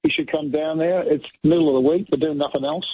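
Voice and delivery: lightly put-on Aussie accent; mildly broadened Australian accent; best Australian accent. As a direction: give fans a casual plug in Australian. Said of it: "do it in your best Australian accent".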